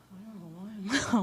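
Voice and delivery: breathless, rushed words; out of breath. Real, not acted. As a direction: talk short of breath, hurried. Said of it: "I'm out of breath".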